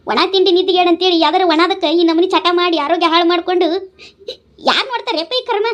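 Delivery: a mother's tearful reproach; worn-down, weepy pleading; tearful lament. Acted. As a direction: lament to your son, close to crying. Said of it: "ನೀ ಅಳ್ಬ್ಯಾಡ್ ಬೇ".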